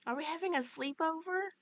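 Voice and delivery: put-on high, bright-eyed childlike character; sing-song, delighted friendly character; cheerful animatronic voice. Cheerful animatronic asks eagerly.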